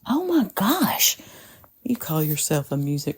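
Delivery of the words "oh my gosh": whispering. Real, not acted. Shocked she never heard it.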